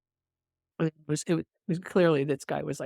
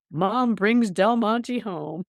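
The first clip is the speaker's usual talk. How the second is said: mock announcer line; 5 semitones higher, 4 dB louder, much slower than usual. Doc or tech quips at coded patient.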